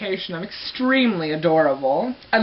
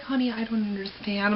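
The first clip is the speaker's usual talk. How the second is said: gentle puzzlement; 7 dB quieter than usual. Retold or imitated. Mother not understanding, retold.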